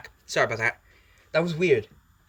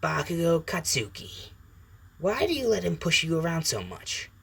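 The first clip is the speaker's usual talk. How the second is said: Venom; 6 semitones higher than usual. Acted. Symbiote confronts the boy about his bully, raised and pointed. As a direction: spell out the name, then needle him. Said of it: "And Venom says".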